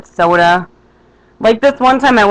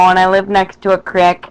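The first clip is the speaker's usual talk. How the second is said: Minnesotan accent. Shown as a demonstration. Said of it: "my Minnesotan accent".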